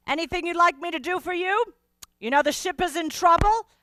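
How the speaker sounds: worried steward asking at the door; anxious steward. Acted. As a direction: press her quickly but kindly. Steward asks urgently.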